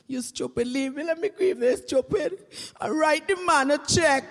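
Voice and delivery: loud exasperated retort; angry retort. Retold or imitated. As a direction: snap it back, fed up. Widow snapping at friend.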